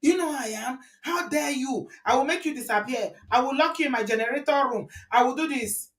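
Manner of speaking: mock shouting. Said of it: "started shouting".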